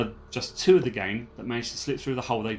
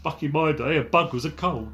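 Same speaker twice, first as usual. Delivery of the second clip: lightly voiced old-timer, a little higher; mock old-timer; 4 semitones higher than usual. Co-host joining the joke about bugging, mock old-timer. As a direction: grumble like an old crook, half laughing.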